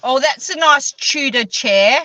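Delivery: Tudor said as Chudor, lightly voiced; teasing mimicry, chair with Chudor; lightly voiced friend's accent; mock Neil accent.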